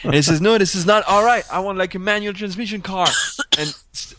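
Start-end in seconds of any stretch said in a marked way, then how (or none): 0.4-3.1 higher-pitched mock protest; retold complaining. Retelling a journalist's gripe to the fleet manager, mock complaining. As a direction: imitate a fussy complaint, voice raised. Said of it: "started complaining".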